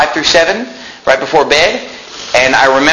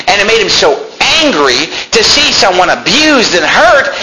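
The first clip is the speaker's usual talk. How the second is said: raised, forceful sermon voice; impassioned preaching; 7 semitones higher than usual. Acted. Preacher rebuking those fooled by glamorous ads, impassioned. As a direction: drive each point home to the congregation.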